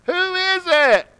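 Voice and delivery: high, slow, calling up the cliff; hanging man asks. Retold or imitated. Man on the ledge calls up asking who speaks, high and slow. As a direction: call out slowly, unsure who's there. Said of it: "He said".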